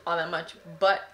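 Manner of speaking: talking around a lollipop; sucking a lollipop. Real, not acted. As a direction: lollipop in the mouth while talking. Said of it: "I'm eating this lollipop right now".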